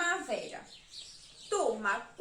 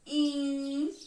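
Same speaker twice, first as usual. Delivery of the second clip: "In" drawn out as one syllable; isolated, stretched "In"; syllable marking. Shown as a demonstration. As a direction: hold "In" on its own for counting. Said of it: "eu vou marcar a sílaba".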